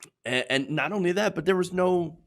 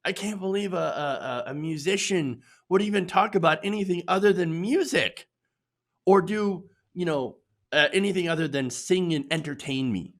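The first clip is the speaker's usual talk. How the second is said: mock outrage; 3 semitones higher than usual. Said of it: "one of those outrage".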